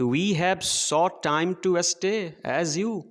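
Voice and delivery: very slow, measured verse reading; poem recitation. Shown as a demonstration. Teacher reading poem to children, slow recitation. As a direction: read the line out word by word for the class. Same line recited again.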